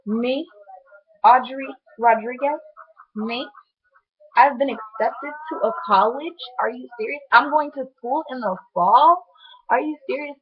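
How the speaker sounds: can't believe you got in; amazed disbelief. Retold or imitated. Reacting to college acceptance.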